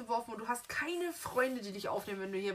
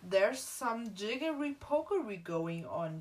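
English accent. Shown as a demonstration.

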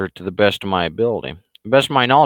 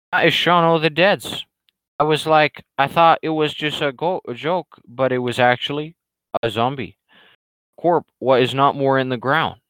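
excited riff; 5 semitones higher than usual. Real, not acted. Riffing on Shaun of the Dead.

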